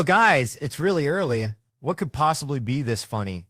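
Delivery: mock-exasperated dad calling out high and loud; retold parental plea to the kids. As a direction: start high and loud on "Guys", then ease down. Parent addressing kids in retold scene.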